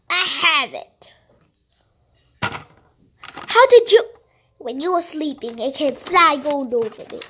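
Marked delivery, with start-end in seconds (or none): 2.4-4.0 drawn-out, high, loud disbelief; astonished. Pretend. Passenger stunned the driver has her bag, slow and high. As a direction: stretch it out in shock.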